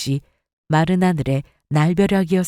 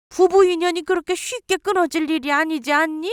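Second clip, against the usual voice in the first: pleading mother-in-law; 8 semitones higher than usual. Acted.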